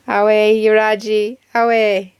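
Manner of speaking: amateur Geordie call; attempted Geordie accent. Shown as a demonstration. YouTuber trying Geordie for viewers, rough Geordie accent. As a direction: have a go at Geordie. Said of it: "do a good Geordie accent".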